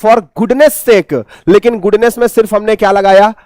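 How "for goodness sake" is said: slow demo. Shown as a demonstration. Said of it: "तो क्या बोलेंगे".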